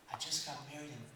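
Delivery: soft inner voice of a puzzled husband; thinking to himself. Acted. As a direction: quietly talk it over with yourself. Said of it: "He's thinking to himself".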